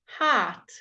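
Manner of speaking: heart said with a long open ah; clear heart. Shown as a demonstration. Teacher modelling heart for the class. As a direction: stretch the ah in heart. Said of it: "teaching you very clear pronunciation".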